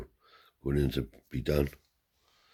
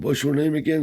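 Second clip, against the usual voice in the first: much higher and louder, hearty; old man grilling a guest, voiced high and loud; grandfather's voice; 12 semitones higher, 7 dB louder than usual.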